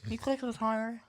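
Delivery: talking around a candy; words slurred by a sweet in the mouth; mouth full. Real, not acted. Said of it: "I don't wanna talk with a candy in my mouth".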